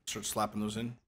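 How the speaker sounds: soft whisper. Real, not acted. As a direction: ask it under your breath. Whispered back while playing.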